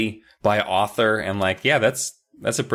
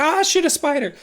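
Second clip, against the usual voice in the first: put-on failed Minnesota accent. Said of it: "doing Minnesota accents".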